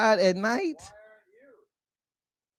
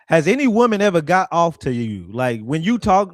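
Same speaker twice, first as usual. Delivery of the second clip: ordinary talk, nothing marked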